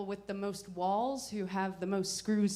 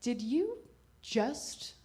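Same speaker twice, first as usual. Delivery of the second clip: a hint of cold disgust, slowing on the end; slower than usual. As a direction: ask it like a disapproving aunt. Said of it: "with disgust".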